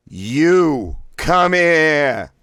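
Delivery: each word blasted high, loud and very slow; three words blasted. Shown as a demonstration. Voice exercise, "You come here" blasted word by word. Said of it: "Blast out all three words individually".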